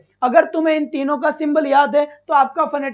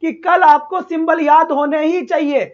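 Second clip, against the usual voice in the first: louder, firmer teacher's rebuke; stern, raised teacher voice; raised scolding voice; 2 semitones higher, 5 dB louder than usual. Real, not acted. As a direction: scold the class for not learning symbols. Teacher scolding class for not memorizing.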